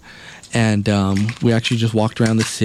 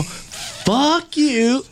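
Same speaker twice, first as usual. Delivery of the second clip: mock sleepy retort. Retorting half asleep.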